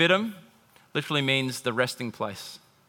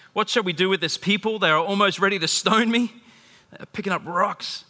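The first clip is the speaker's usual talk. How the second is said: mildly alarmed plea, pitched higher; crying out; 4 semitones higher than usual. Acted. Moses crying to the Lord, mildly alarmed plea. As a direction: plead with a touch of alarm. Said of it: "So Moses cried to the Lord".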